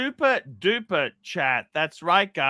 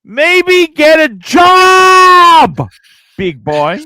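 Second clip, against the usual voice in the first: posh attempt bellowed into broad Australian; drawn-out shout, slipping from posh to Aussie; failed posh accent; 7 semitones higher, 12 dB louder, much slower than usual. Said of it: "he wound up on the cobber".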